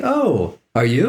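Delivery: imitating Lisa. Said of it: "She's like".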